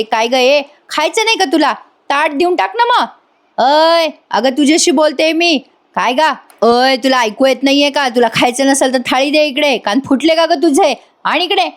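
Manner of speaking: high, taunting jeering voice; lightly voiced mocking prisoner; bullying inmate. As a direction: needle her like a bully.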